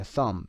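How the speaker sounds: "thumb" ending on m, no b; silent b. Shown as a demonstration. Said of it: "بیش هم تلفظ نمیشه".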